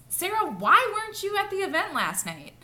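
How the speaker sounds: sharp, high accusing why; accusing question. Shown as a demonstration. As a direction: make her feel attacked. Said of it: "She'd kind of feel attacked".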